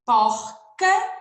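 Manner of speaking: porca lifted high and loud; emphasised word. Shown as a demonstration. Teacher recapping the word list for pupils, porca high and loud. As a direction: hit porca clearly for the class.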